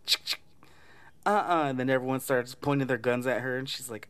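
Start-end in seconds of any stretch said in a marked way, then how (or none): 0.1-1.7 high and louder warning; mock threatening mom. Mom with a pistol warning the mob, sassy and loud. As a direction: cock the gun and sass them.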